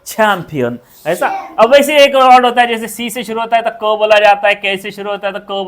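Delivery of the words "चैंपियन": चैंपियन with छ at the start; falling model word, breathy CH; aspirated English CH. Shown as a demonstration. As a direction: puff the CH in चैंपियन. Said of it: "च नहीं, छ".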